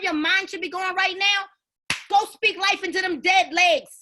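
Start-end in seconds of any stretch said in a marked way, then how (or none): 2.1-3.9 rallying shout. Real, not acted. Rallying sellers.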